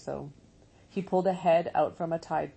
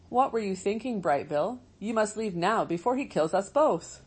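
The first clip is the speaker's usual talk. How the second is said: alarmed robot mother; 3 semitones higher than usual. Acted. Roz scolds in alarm.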